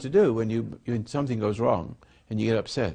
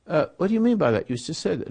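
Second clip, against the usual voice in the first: mock accusing voice, higher and fast; 6 semitones higher than usual. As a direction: pounce on what they just said. Acted accusation after misspeaking.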